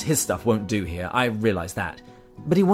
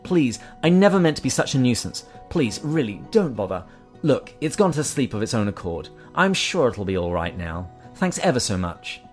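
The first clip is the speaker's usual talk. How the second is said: higher, hurried begging; nervous pleading; 4 semitones higher, 6 dB louder than usual. Acted. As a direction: plead not to be bothered. Ghost begging off.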